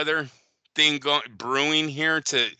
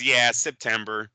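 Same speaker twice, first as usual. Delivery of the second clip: slow, lightly mocked Tank mumble; Tank's odd answer; 5 semitones lower than usual. Host imitating Tank answering about Floyd, slow. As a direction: draw out yeah September like Tank. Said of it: "Tank sounds like he says".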